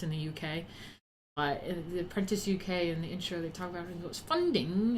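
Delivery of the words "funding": rising British presenter's "Funding,"; imitating a TV presenter saying "Funding," with a rising lilt; funny funding. Streamer quoting The Apprentice intro, mock presenter voice. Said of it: "he says funding really funny".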